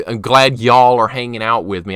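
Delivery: demonstrating Southern "y'all" talk. Shown as a demonstration. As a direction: lay on the Southern accent. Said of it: "I try not to say that".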